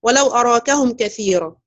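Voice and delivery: slow measured recitation of ولو أراكهم; Quran recitation. Shown as a demonstration. Teacher reciting the verse to her students. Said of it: "في قول الله تعالى".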